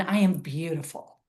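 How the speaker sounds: "beautiful" given the main emphasis; stress on BEAUTIFUL. Shown as a demonstration. Last round of the mirror affirmation, stress on "beautiful". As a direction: run up to "beautiful" and lean on it. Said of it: "emphasizing different words".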